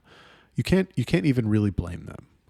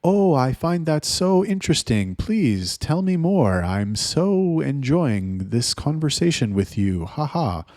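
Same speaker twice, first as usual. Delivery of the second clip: high, loud, slow over-polite gushing; mock prim girl; 5 semitones higher, 3 dB louder, slower than usual. Chatter texting like a formal girl, hammed-up prim gushing. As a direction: ham up a stiff, too-perfect girl. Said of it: "be like".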